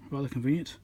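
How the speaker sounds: ordinary delivery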